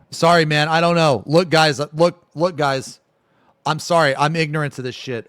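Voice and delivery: loud, high, flustered protest; defensive apology. Real, not acted. Streamer apologizing to chat for not knowing an acronym, loudly defensive.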